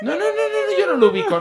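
disown him in an exaggerated high voice; mock hasty denial. Acted denial of knowing a friend. (negación fingida, aguda y atropellada)

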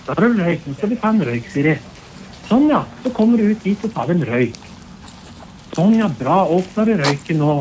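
firm, loud reassurance; loud coaxing. Real, not acted. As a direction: guide her over, loudly and steadily. Loudly coaxing her toward officers.

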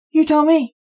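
amused, wry comeback. A narrator's reading. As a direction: tease the lawyer with a crooked smile. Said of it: "with a wry smile".

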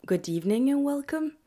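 lightly put-on host voice opening the show; show host welcome. Shown as a demonstration. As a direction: greet the listeners like a radio host. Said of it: "Je sais pas comment je suis censée introduire ça en anglais".

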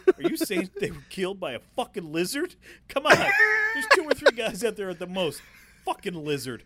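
hammed-up muttered disbelief; a touch of Carl Weathers as Dillon; imitating Dillon. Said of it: "the way he delivers it".

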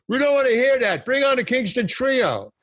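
rowdy heckler shouting at the comedian to bring on the band; heckler yelling. Retold or imitated. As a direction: yell him off the stage like a rowdy crowd member. Heckler shouting from nightclub crowd.

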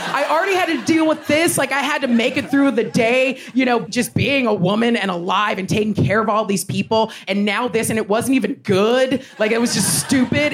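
high, laughing exasperated rant. Retold or imitated. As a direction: vent it, fed up and half laughing. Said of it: "she's like".

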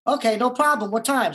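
mock eager yes. Eager kid agreeing on the phone.

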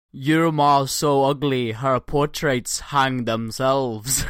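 Scottish insult, slow and punchy; Scottish accent. Acted. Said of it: "read out in my best Scottish accent".

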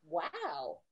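low, hushed "wow"; stunned wow. Retold or imitated. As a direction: say it softly to yourself, stunned. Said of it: "And I was like".

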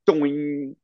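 drawn-out twanging boing; imitated boing. Talker mimicking the room's echo off metal beams, imitated boing. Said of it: "I can hear it going".

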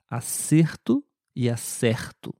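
first acerto with closed e, second with open e; closed then open e. Shown as a demonstration. Teacher contrasts acerto and acerto for the class. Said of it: "O som é um pouquinho diferente, especialmente na letra E".

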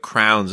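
"Crowns" for crayons, one syllable; schoolmates' pronunciation. Retold or imitated. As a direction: imitate the kids saying "Crowns". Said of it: "they were like".

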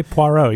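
"Poirot" said simply, without any accent; plain unaccented pronunciation. Shown as a demonstration. Telling a co-host to just say Poirot, plain pronunciation. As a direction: say "Poirot" in your ordinary accent. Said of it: "don't have to put any accent on it".

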